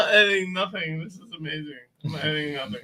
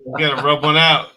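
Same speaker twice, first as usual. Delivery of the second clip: loud teasing; 7 dB louder than usual. Real, not acted. Teasing cohost leaving to pee.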